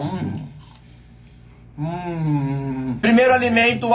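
talking while chewing snack; muffled, food in mouth; mouth full, chewing. Real, not acted. Seen 0: Bites square snack at 0.2, chews through 2.7; hands empty after.

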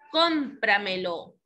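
"cómpramelo" slow, weight on "cóm"; sobresdrújula stress. Shown as a demonstration. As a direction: draw out "cómpramelo", stressing its first syllable. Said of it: "la sílaba anterior a la antepenúltima". («cómpramelo» lento, marcando la primera sílaba)

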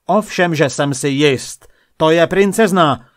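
loud, high royal outburst; angry insistence. A narrator's reading. King overruling the doubting painter, loud and angry. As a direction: insist furiously, rising in volume and pitch.

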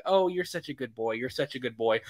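soft, cooing mock baby talk; lightly voiced tender coo to a horse. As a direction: coo it like petting a pet. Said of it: "trying to baby it".

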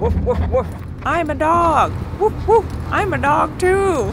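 high, goofy dog voice; playful talking dog. Acted. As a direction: bark out words as a silly dog. Sitter plays talking dogs.

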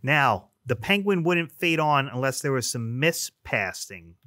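muffled through a mask; talking through a face mask. Real, not acted. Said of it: "it's hard to talk with this mask on".

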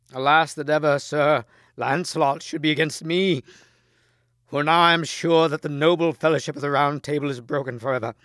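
high, loud grieving outcry; lamenting. A narrator's reading. King Arthur mourning his broken fellowship, loud lament. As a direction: cry out in anguished lament.

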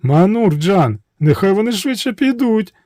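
high, frightened pleading; beg, nearly crying; high tearful princess; near tears. A narrator's reading. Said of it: "ледь не плачучи".

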